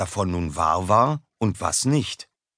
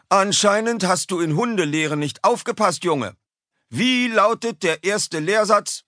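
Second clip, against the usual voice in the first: stern teacher; 12 semitones higher than usual. A narrator's reading. Teacher scolds Konrad.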